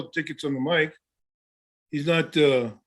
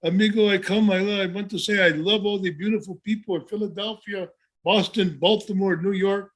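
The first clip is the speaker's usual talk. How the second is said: Pedro's promo; 4 semitones higher than usual. Retold or imitated. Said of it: "Pedro had the same promo".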